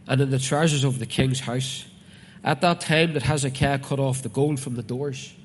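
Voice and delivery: loud, declaimed Bible reading; preacher reading out scripture. Acted. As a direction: proclaim the verse firmly to the congregation. Reads scripture aloud to congregation.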